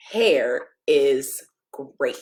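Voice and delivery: hushed whisper. Acted. Final book line whispered.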